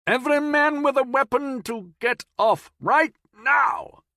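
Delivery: high, loud screamed order. A narrator's reading. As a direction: scream it up at him to get off. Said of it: "he screamed up at Brinklow".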